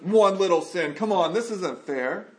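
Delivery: acted-out whiny protest; imitated exasperated grumble; mock exasperation. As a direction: complain as if unfairly treated, punching the opening. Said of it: "He never is exasperated and goes".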